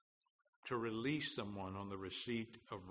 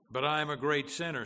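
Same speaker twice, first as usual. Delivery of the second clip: loud, higher-pitched, quick objection; raised voice of a protesting sinner; 5 semitones higher, 9 dB louder, faster than usual. Acted. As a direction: burst in with the objection. Sinner's objection in quoted dialogue.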